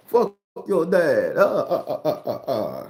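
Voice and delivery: loud, slow, shrill outburst; shrill overlapping reality fight. Real, not acted. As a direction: another voice cuts in yelling. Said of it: "others laugh, far voice shouts".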